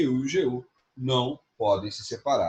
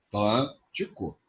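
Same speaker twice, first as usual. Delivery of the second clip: slow demo; 3 semitones lower, slower than usual. Shown as a demonstration. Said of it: "Como é que separa?".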